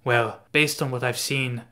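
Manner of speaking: light attempt at a German accent, dry and mocking; a hesitant German accent for a sneering quip; an amateur German accent, lightly put on; Nightcrawler German accent. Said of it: "I can't do a German accent".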